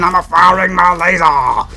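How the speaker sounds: loud, drawn-out mock war cry; over-the-top attack call; meme battle cry. Shouts a meme attack line.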